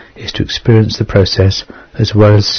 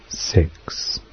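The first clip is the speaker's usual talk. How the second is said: whispering; 4 semitones lower, 11 dB quieter than usual. Acted. Whispered during the countdown.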